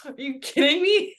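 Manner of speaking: high, loud gasping disbelief; shocked disbelief. Retold or imitated. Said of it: "and I'm all like".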